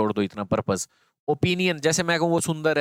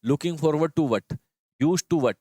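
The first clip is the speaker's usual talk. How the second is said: slow sound demo; much slower than usual. Shown as a demonstration. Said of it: "जितने भी वहाँ to है ना".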